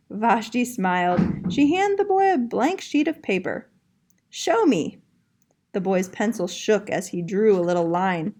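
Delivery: put-on lively storybook reading to young kids; reading to children. A narrator's reading. Art teacher reading a picture book to her young class, lively and clear. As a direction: read it out like story time for little ones.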